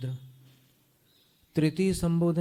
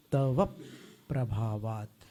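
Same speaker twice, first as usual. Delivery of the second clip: तव प्रभावात् with a pause after तव, stress on प्रभावात्; stress shown; 5 semitones lower, 4 dB quieter, slower than usual. Shown as a demonstration. Teacher showing students the stress in तव प्रभावात्. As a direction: break after तव, then lean on प्रभावात्. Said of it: "इसको स्वराघात कहते हैं".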